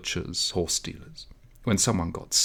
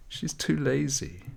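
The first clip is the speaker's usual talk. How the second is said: smiling; 6 semitones higher, 3 dB quieter than usual. A narrator's reading. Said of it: "smiling as if".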